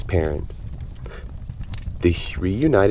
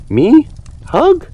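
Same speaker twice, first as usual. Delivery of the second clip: grumbling; 10 semitones higher, slower than usual. Acted. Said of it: "grumbled Hank".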